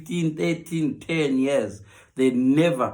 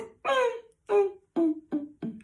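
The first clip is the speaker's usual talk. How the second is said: contented hums; 5 dB quieter, much slower than usual. Acted. Woman enjoying new attention.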